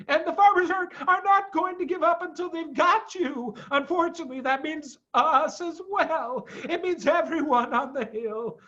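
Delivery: high, bitter animal voice slowing down; grim Badger. A narrator's reading. Badger explaining the farmers' hunt, grim. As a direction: spell out the doom.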